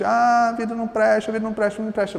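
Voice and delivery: put-on self-pitying whine; mock lament. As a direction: wail it like a hammed-up sufferer. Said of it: "Se eu tô dizendo constantemente".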